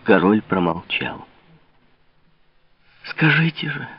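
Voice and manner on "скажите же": heated. A narrator's reading. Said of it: "с горячностью повторила Лавальер".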